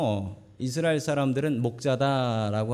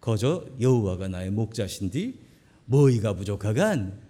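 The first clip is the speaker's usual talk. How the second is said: a light North Korean accent, louder on the question; a hint of Pyongyang speech; North Korean dialect; 2 semitones lower, 4 dB louder than usual. Shown as a demonstration. Pastor lightly imitating North Korean dialect for the congregation. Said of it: "북한 버전은 이렇대요".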